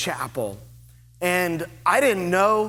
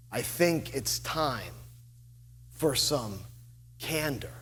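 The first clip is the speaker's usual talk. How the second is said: put-on slow old Virginia accent; 5 semitones lower, 10 dB quieter than usual. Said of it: "speaks very slowly in an old Virginia accent".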